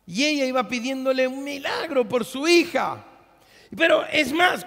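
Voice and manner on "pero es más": high, loud outburst; fiery preacher shout; preacher's shout. Real, not acted. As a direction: burst out to grab them.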